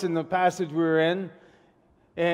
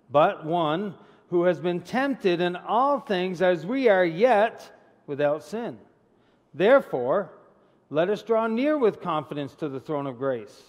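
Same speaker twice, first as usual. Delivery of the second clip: scripture reading. Acted. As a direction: read the verses to the congregation with weight. Reads scripture aloud.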